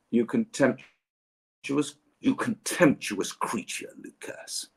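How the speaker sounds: slow, drawn-out theatrical scorn; hammed-up disdain; mock contempt. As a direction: savour the insult like a pantomime villain. Mock-insulting a fan by name.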